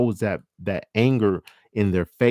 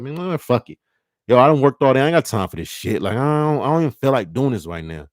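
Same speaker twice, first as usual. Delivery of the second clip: higher, louder "I ain't got time" rant; fed-up snapping; 5 semitones higher, 5 dB louder than usual. Acted. Tired partner snapping at mate after work. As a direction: blow up after a long workday.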